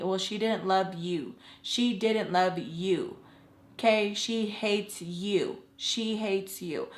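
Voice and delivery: slow, drawn-out "SHE HATES YOU", softly pressed home; insistent repetition. Retold or imitated. Friend wanting her to understand it's not mutual, slow and insistent. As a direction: repeat "she didn't love you" slowly, spelling it out. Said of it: "she just kept repeating it".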